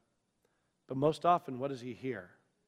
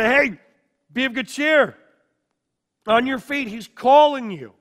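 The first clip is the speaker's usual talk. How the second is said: eager crowd; 6 semitones higher, 6 dB louder than usual. Acted. Crowd urges beggar eagerly.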